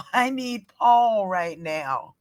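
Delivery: fed up and calling for her husband; exasperated inner rant. Retold or imitated.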